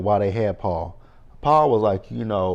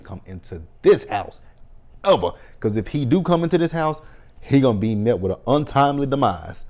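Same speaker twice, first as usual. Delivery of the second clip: gossiping women; 4 dB louder than usual. Retold or imitated. Mothers gossiping about a released killer, loud and frantic. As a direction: panic over the phone, arming up. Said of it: "They say Ronnie".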